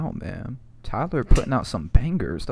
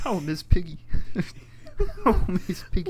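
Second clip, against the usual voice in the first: silly put-on voice; 6 semitones higher than usual. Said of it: "always change our voices".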